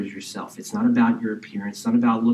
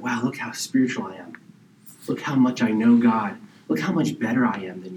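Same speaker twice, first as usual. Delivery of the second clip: smug persona; 2 semitones lower than usual. Retold or imitated. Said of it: "you put off this persona".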